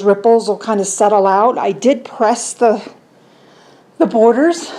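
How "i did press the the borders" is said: winded and puffing between words; breathless after floor work; out of breath. Real, not acted. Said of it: "Ew, I'm all out of breath".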